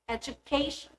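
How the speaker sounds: eduCAtion, stressed on CA; pre-suffix stress. Shown as a demonstration. Teacher showing suffix rule, eduCAtion stressed before -tion. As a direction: lean on CA in education. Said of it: "syllable before these suffixes".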